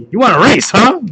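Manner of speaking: taunting shout. Acted. Character taunts while falling.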